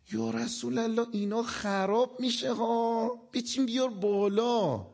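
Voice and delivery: condescending busybody giving unwanted advice; know-it-all man. Retold or imitated. Man lecturing the Prophet on stacking bricks, condescending know-it-all.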